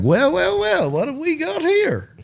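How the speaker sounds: high mocking movie-villain sneer; Hollywood bad kid. Mocking a Hollywood teen bully to a friend, high sneering voice. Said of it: "Hollywood bad kids".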